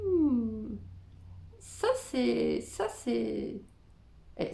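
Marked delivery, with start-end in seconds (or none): 0.1-0.8 long, drawn-out doubtful "hmm"; pensive hum. Acted. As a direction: hum as if mulling it over. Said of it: "je me dis".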